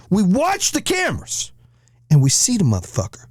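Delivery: high-pitched storyteller's disbelief; incredulous emphasis. Real, not acted. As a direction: stretch it out way up high.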